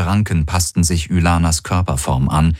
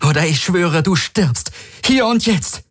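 threatening; 12 semitones higher than usual. A narrator's reading. Threat at gunpoint.

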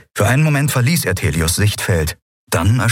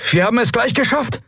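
high creature voice reporting; reptile creature voice. A narrator's reading. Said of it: "meldete der Draxyl".

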